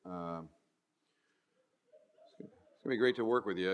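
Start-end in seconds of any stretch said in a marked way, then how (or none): 2.4-3.7 low, soft and sour, nice words said gloomily; grumpy delivery. Shown as a demonstration. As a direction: kind words with a scowl in the voice. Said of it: "You lost me at hello".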